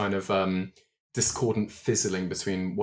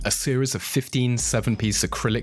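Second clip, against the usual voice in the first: smooth, measured podcast ad read; sponsor ad read. Real, not acted. Host plugging a dice trader to listeners, polished ad read. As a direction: read the sponsor copy clearly and evenly.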